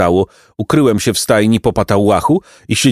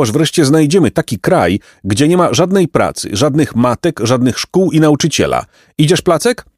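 higher-pitched indignant rant; angry; 5 semitones higher than usual. Acted. Jacek fed up with everyone working, mildly irritated rant. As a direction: complain crossly, keeping the pitch up. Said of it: "Jacek się zeźlił".

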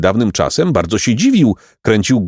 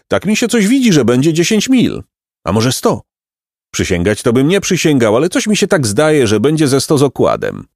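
put-on high, bright-hearted old peasant voice; cheerful peasant; 6 semitones higher than usual. A narrator's reading. Peasant reassures the two travelling boys, high and kindly. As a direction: play the kindly peasant, pitched up.

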